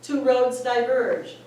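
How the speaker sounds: bright excited self-quote; cheerful self quote. Retold or imitated. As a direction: announce it gleefully, up high. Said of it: "And then I said".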